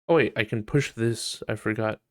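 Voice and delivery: usual speaking voice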